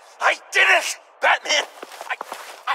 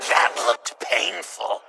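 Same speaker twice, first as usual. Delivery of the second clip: slow, low amused remark; laughing quip; 3 dB quieter, slower than usual. Acted. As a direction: chuckle through the joke. Hero jokes after villain falls.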